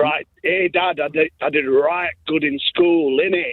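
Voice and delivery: lightly imitated broad Lancashire lad; broad Lancashire accent. Father imitating his son talking to Dad, broad Lancashire accent. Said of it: "starts off with a right broad Lancashire".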